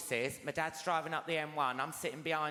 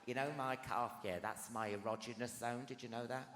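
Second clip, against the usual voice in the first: lower, softer confiding tone; 8 semitones lower, 8 dB quieter than usual. Acted. Telling the crowd something personal, lower and softer. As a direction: share a secret with the crowd, hushed.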